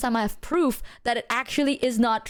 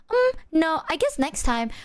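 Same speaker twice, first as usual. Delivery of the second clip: higher, put-on polite decline; softened refusal; 6 semitones higher than usual. Shown as a demonstration. Showing how they want a no explained, overly nice. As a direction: let them down with exaggerated niceness. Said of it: "I'm supposed to be like".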